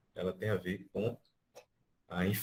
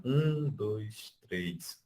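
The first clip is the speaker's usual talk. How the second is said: counting with um held a bit longer; longer first beat; much slower than usual. Shown as a demonstration. Teacher showing the strong beat in counting. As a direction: count and lean on um. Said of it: "No tempo forte, você fala um pouquinho mais de duração".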